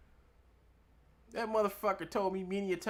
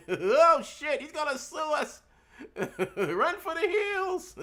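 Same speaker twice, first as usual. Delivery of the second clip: high, loud fake alarm through laughter; mock panic; 8 semitones higher, 5 dB louder, slower than usual. Mocking the lawsuit threat, hammed-up fake panic while laughing. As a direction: pretend to flee, laughing. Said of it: "mock panic at his threat".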